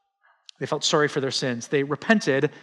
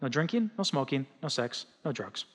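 mom's warning; 7 dB quieter than usual. Retold or imitated. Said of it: "she'd grab me by the shoulders and say".

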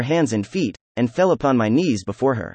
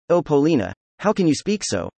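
reproachful exclamation; 3 semitones higher than usual. Acted. The narrator answering Polina's taunt, mildly reproachful. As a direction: plead with her, lightly hurt and reproachful. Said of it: "I exclaimed reproachfully".

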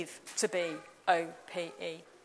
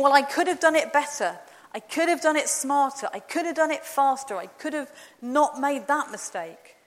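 higher, louder anxious self-questioning; fretful inner voice; 4 semitones higher, 4 dB louder than usual. Retold or imitated. A preacher voicing the doubter's anxious thoughts. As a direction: fret over every little failing.

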